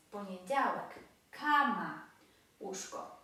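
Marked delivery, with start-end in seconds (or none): 1.3-2.0 Cama with a forceful first syllable; penultimate stress. Shown as a demonstration. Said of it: "akcent właśnie pada na".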